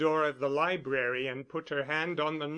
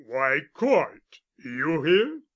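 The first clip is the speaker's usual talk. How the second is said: slightly annoyed; 4 dB louder, slower than usual. Acted. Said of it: "quick tones showed slight annoyance".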